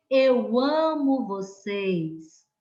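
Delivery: "eu amo vocês" dito devagar, com carinho para os alunos; carinhosa, devagar. Shown as a demonstration. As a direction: fale "eu amo vocês" lento e afetuoso. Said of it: "colocou uma entonação diferente para cada uma delas". (declaração carinhosa e lenta)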